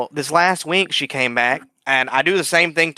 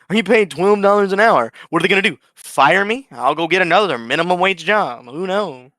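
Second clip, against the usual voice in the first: defiant rant; 4 semitones higher than usual. Retold or imitated. Worker shrugging off getting fired, scoffing. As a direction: brush off the threat of firing. Mock voice of the boss.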